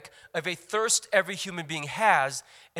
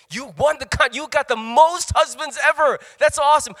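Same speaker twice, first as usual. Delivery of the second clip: sarcastic; 7 semitones higher, 9 dB louder than usual. Retold or imitated. Sarcastic praise for failed marriages.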